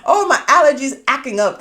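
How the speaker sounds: light mock of husband complaining; a hint of husband's whiny excuse; imitating husband. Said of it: "That's how he was saying it".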